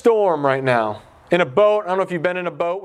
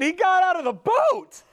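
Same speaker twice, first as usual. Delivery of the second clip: much higher, in disbelief; he actually did it, sound amazed; incredulous; 12 semitones higher than usual. Retold or imitated. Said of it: "And I'm thinking".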